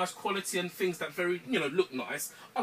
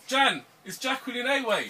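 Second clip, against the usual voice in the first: yelling across the room; 5 semitones higher than usual. Real, not acted. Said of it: "can you not shout across the, the room".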